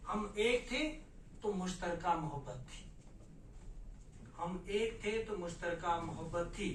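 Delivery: measured verse recitation with repeated lines; poetry recital. Acted. Poet sharing a couplet on partition with fellow writers, measured recital. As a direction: recite the couplet in deliberate phrases.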